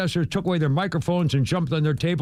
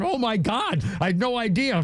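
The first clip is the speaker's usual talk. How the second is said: amazed; 7 semitones higher than usual. Retold or imitated. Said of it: "And I'm going".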